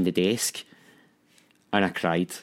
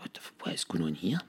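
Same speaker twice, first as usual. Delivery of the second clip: whispered disbelief to yourself; hushed, bewildered whisper; alarmed whisper; 4 semitones lower, 10 dB quieter than usual. Retold or imitated. Man waking to a pounding heart, alarmed whisper.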